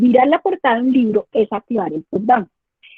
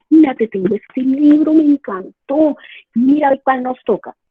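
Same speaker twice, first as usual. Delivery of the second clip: enthusiastic book pitch; 3 semitones higher, 4 dB louder than usual. Shown as a demonstration. Teacher showing how to present a book to a child, eager and delighted. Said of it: "La forma como yo presento el libro es súper importante".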